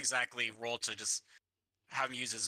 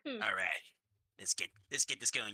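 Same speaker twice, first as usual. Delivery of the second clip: Cartman-like voice; 4 semitones lower than usual. Acted. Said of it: "Is that Cartman?".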